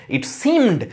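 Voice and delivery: it seemed, with seemed high and falling; stress on SEEMED. Shown as a demonstration. Teacher proving the first is unstressed, seemed emphasised after it. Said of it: "সেকেন্ডটাতে তুমি stress দিলে".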